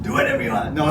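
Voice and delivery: said through a high laugh. Real, not acted. Tells the pastor to do what he wants, laughing.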